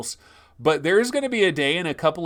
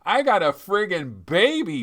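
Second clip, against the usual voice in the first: mock-exasperated dad, higher and emphatic; exasperated parent; 6 semitones higher, 4 dB louder than usual. Dad with new baby dismisses three-year-old, mock exasperation. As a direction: play a parent brushing off the older kid. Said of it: "running up to you".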